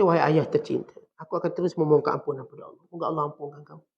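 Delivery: subdued, tender answer to father; gentle reply. Retold or imitated. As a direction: answer harshness softly, letting it fade. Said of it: "Ibrahim tetap berkata".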